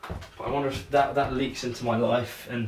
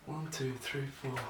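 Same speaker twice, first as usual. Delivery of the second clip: counting under breath; 11 dB quieter than usual. Real, not acted. Counting catches quietly.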